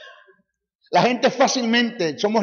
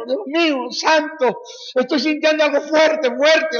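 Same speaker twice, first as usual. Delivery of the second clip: mock weeping worshipper; 9 semitones higher, slower than usual. Congregation answering the preacher, mock-tearful high cry. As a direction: wail it like a sobbing congregant.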